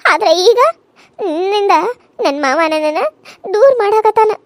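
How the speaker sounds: tearful accusation against the other wife. Acted. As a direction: voice catching on a sob.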